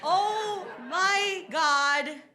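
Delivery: very slow, high, drawn-out dismay; stunned disbelief. Retold or imitated. She watches the gun come out, slow stunned disbelief. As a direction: stretch each word in mock horror. Acting out her horrified thought.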